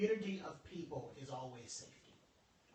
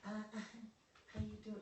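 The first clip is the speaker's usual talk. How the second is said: caught off guard; 6 semitones higher, 5 dB quieter than usual. Retold or imitated. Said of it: "So I'm not coming".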